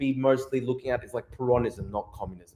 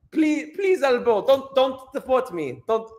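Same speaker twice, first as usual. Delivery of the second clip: put-on high pleading Afrikaner accent, much higher; 9 semitones higher, slower than usual. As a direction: beg in a high South African voice. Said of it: "how do I do an Afrikaner accent?".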